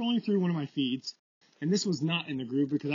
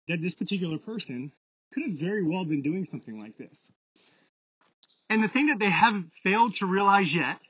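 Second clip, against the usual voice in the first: breathless from climbing a hill; out of breath. Real, not acted. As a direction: talk while panting uphill. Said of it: "if I sound like I'm out of breath".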